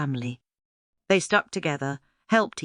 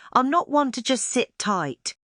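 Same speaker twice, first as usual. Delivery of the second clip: puffing; 6 semitones higher than usual. A narrator's reading. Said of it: "he puffed".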